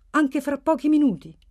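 loud, high, eager question; domanda speranzosa. A narrator's reading. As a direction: press him for it, not yet convinced. Unconvinced character presses hopefully. (domanda alta e insistente, piena di speranza)

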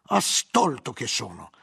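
slow exclamation at his own folly; self-reproaching cry. Acted. Guglielmo realising he was tricked, exclaiming in self-reproach. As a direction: cry out at having been fooled. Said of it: "gridò Guglielmo".

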